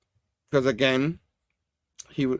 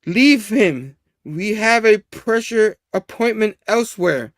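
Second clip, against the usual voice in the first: lightly put-on villain voice, drawn out; slow, raised, mildly theatrical command; Green Goblin; 4 semitones higher, slower than usual. Voice in the head ordering him off, lightly villainous. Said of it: "It looked like a Green Goblin voice".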